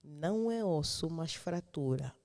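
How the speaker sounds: slow, deliberate words; over enunciating. Shown as a demonstration. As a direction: spell it out slowly, word by word. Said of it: "vou falar bem devagar". (devagar e bem articulado)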